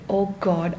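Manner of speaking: ordinary talk, nothing marked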